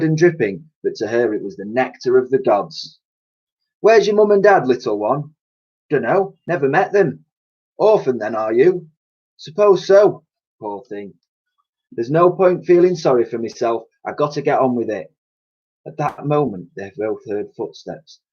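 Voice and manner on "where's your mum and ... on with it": put-on higher cockney lady and orphan girl; character voices. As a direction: kind cleaner chats with girl. Dotty and Elsie talk.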